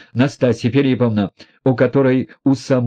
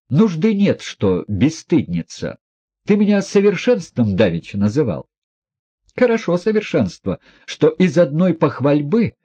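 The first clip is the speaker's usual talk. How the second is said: lightly voiced proud, bitter woman; a hint of reckless defiance, pitched up; proud Nastasya; 6 semitones higher than usual. A narrator's reading. Woman mocking herself before the prince, proud and bitter.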